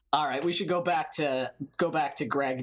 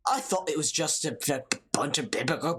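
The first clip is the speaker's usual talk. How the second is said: put-on Irish accent tumbling into gabble; garbled, hurried Irish brogue; Irish accent attempt; faster than usual. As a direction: let the mock-Irish brogue trip over itself. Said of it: "that's Saint Patrick's Day".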